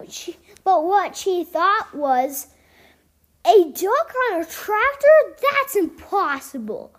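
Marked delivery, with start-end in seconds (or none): 3.4-6.9 higher, astonished gasp on the question; grandma can't believe her eyes; gasping in surprise. A narrator's reading. Grandma at the diner sees a duck driving, gasping in disbelief. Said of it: "Grandma gasped".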